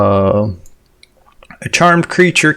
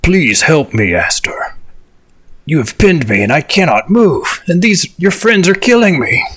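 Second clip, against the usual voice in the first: smoky dragon breath; 4 semitones higher than usual. Acted. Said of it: "I should have used my dragon voice".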